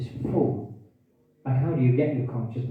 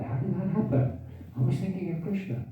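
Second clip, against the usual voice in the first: puzzled surprise; 7 semitones higher, 4 dB quieter than usual. Retold or imitated. Voicing a puzzled devotee's thought.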